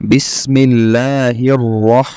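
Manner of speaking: slow recitation with heavy "রহ"; thick-r recitation. Shown as a demonstration. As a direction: stretch the syllables and thicken "রহ". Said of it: "একটু মোটা করে পড়তে হবে". (ধীর তিলাওয়াতে মোটা "রহ")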